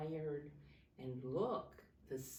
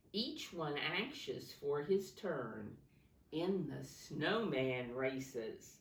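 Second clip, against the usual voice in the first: rhythmic picture-book read-aloud; reading to children. Acted. Teacher reading a snow story to her class, lilting. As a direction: lilt the rhyming verse for the class.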